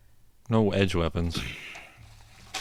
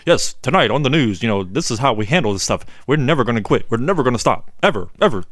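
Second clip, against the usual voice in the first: news reporter voice; faster than usual. Retold or imitated. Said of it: "news reporter sounding voice".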